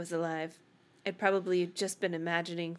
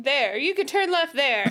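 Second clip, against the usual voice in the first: laughing; 6 semitones higher, 7 dB louder than usual. Acted. Laughing while reading line.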